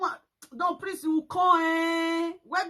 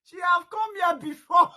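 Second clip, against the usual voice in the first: mocking her English; 4 semitones higher, 5 dB louder than usual. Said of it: "your English, don't break my neck".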